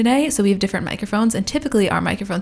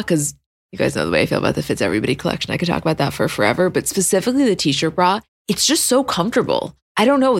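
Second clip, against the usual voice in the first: ad read; 4 semitones lower than usual. Acted. Host reads sponsor ad.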